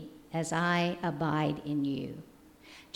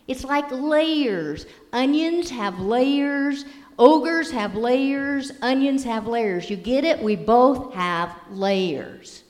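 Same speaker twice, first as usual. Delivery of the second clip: slow, emphatic, lightly voiced ogre; Shrek voice; 4 semitones higher, 5 dB louder than usual. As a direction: spell it out slowly for the donkey. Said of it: "Shrek says".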